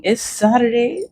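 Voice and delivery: sing-song high Saturday; bright lilting lift on Saturday; chirpy sing-song announcement. Real, not acted. Repeated greeting, sung-out high.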